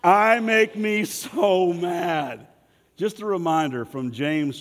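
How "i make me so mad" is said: very slow, loud, every word stretched; slow emphatic line. Shown as a demonstration. Pastor showing what to say while pointing at yourself, very slow and loud. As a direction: drill the phrase into them slowly. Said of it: "you're gonna say".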